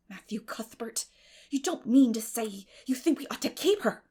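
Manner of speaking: shocked disbelief at his idea; astonished. Acted. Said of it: "Marilla's astonishment".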